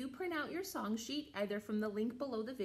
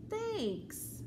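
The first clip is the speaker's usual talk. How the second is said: bear voice; 10 semitones higher than usual. Acted. Bear's line in read-aloud.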